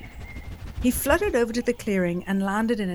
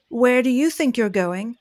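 louder, demanding guard challenge; stern loud zebra; 3 semitones higher, 7 dB louder than usual. Acted. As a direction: bark the question at him. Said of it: "neighed Zebra".

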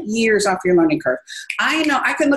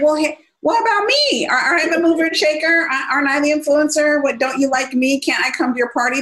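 higher, mock-hurt plea from the ignored guest; left-out guest; 5 semitones higher than usual. Left-out guest pleading to the host, lightly hurt and higher. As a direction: whine a little like nobody invited you. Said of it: "you're sitting there like".

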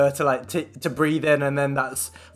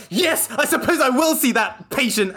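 drawn out, higher-pitched reluctant yes; grudging acceptance; 8 semitones higher than usual. Retold or imitated. Registrar giving in to a referral, grudging. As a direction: give in slowly with exaggerated reluctance.

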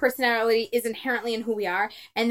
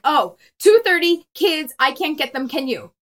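attempted direct request; 3 semitones higher, 6 dB louder than usual. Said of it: "be more direct and just say it".

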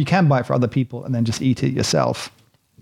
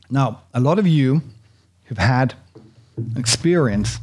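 talking while chewing chocolate; mouth full. Real, not acted. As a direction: speak round a mouthful. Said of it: "and I'm chewing it".

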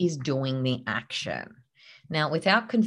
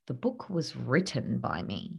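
passive version; 5 semitones lower, 7 dB quieter than usual. Shown as a demonstration. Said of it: "Here's the difference".

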